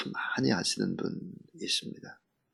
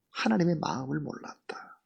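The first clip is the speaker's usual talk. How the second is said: 하나님의 마음을 몰랐다 repeated in a soft whisper; whispered echo; 5 semitones higher, 8 dB quieter than usual. Shown as a demonstration. Preacher echoing his point to the congregation, whispered. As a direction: breathe 몰랐다 out as a hushed whisper.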